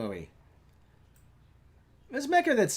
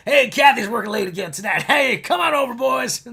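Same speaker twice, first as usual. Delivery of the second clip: loud, high party call; mock husband calling out; 5 semitones higher, 7 dB louder than usual. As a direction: call the boys over gleefully. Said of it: "Frank's chilling at home".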